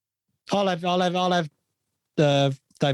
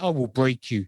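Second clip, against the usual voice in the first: put-on Drago Russian accent; 3 semitones lower than usual. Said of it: "You sound like Eugene".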